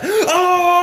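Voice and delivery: high, loud whooping cheer; crowd roar. Retold or imitated. Gym crowd reacting to the crossover, whooping. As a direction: erupt like a whole gym. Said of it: "everyone was like".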